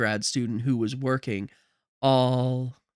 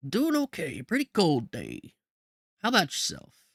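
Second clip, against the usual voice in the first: a hint of a friendly guard, pitched up; easygoing guard making small talk; light New York guard voice; lightly voiced security guard; 4 semitones higher than usual.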